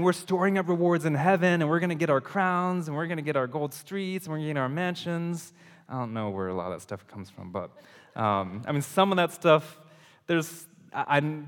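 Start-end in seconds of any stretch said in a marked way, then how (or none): 0.0-5.5 higher, gloating over heavenly prizes; hammed-up boast about crowns and mansions; mock greedy excitement, higher pitched; mock eager believers. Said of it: "So many of us are saying".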